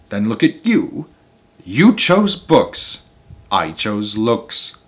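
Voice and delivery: slow, drawn-out smug taunt; smug gloat. Acted. Wife gloating at the teacher, slow and smug. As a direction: savour each word, gloating.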